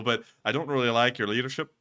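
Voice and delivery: a hint of mock Irish; Irish accent. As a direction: slip back into a light Irish accent. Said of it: "I'm doing an Irish accent".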